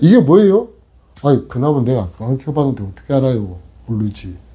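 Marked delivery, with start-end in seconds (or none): 0.0-0.7 jumpy, alarmed, startled, shocked outburst. Acting out people who think it looks like a caterpillar, mock-startled. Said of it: "기겁을 하는 목소리로".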